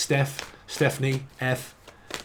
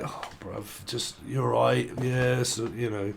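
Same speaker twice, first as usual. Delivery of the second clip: much softer, slow, grudging mumble; reluctant mumble; 6 dB quieter, much slower than usual. Retold or imitated. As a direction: mumble it, wishing you were elsewhere. Acting a reluctant reply to the auntie.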